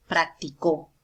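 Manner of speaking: "practicó" with the stress on final CÓ; stress on last syllable. Shown as a demonstration. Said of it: "por la ubicación de la tilde". ("practicó" con fuerza de voz en CÓ)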